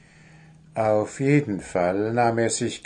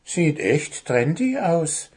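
slow, high approving goblin; mild slow praise up high; praising; 6 semitones higher than usual. Acted. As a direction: praise the dyed nightshirt, slowly. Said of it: "lobte Wuschel".

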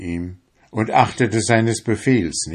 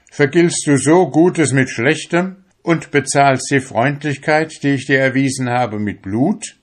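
raised, high, louder voice of outrage; indignant shout; 6 semitones higher, 6 dB louder than usual. A narrator's reading. Merchant accuses the young fisherman who attacked him, indignant shout. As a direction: cry out in accusation. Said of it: "schrie den jungen Fischer an".

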